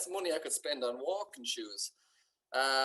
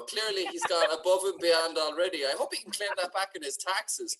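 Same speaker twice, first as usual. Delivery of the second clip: heavy mock praise, a bit louder; sarcastic to his girlfriend, dripping with mock admiration; 3 dB louder than usual. Heavy sarcasm. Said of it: "And I was like".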